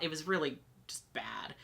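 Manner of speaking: soft unvoiced whisper; hushed whisper recalling the bad moment. Real, not acted. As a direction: breathe it out, barely audible. Recalling panic attack in bathroom.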